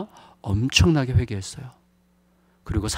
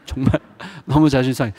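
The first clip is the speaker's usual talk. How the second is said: quick rueful laugh through the words; 4 dB louder, faster than usual. Real, not acted. Pastor admitting his wounded pride, laughing. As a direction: laugh at your own hurt pride.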